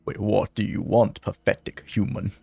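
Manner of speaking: lightly voiced dull mutant, a little low; dumb mutant voice. Mutant challenging a pathetic human, lightly dumb voice. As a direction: have a half-hearted go at a dumb mutant. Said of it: "I'm gonna give it a shot".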